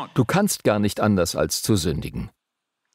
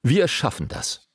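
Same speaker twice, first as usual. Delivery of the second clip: mildly proud pledge, pitched higher; self-assured, proud; 4 semitones higher than usual. Acted. The people answer God with a proud pledge, mildly self-assured. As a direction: lightly act out a confident promise. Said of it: "eine selbstsichere, stolze Zusage".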